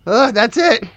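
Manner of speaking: halting, slightly awkward slacker chat; lightly played oddball employee opening up; lightly voiced worker. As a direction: share a hobby haltingly, lightly in character. Plays the worker chatting.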